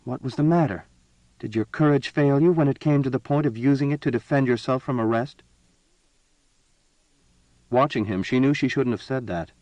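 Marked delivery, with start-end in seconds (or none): 0.0-5.4 cold. A narrator's reading. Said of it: "then asked coldly".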